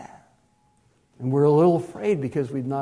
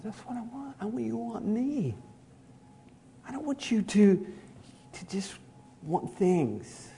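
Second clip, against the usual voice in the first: voice of God; 5 semitones higher than usual. Acted. Preacher voicing God to the congregation, lightly raised. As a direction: lift the voice up and gently voice God.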